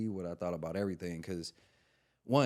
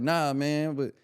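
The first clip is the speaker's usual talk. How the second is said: much higher and loud, mock-outraged comedian; Sinbad cussing; 13 dB louder than usual. Sinbad cusses out the comic for hanging up, high loud mock outrage. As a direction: squeal the insult in a hammed-up Sinbad voice. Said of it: "He was like".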